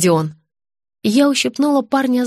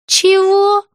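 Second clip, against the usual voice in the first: a sharp, high, louder «Чего?»; stunned; 10 semitones higher, 5 dB louder than usual. A narrator's reading. Girl caught off guard by the director, stunned. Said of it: "Настя опешила".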